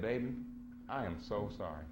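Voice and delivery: low, softened retold apology; imitated tearful apology. Crying wife apologizing to her husband, mildly tearful. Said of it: "she was crying".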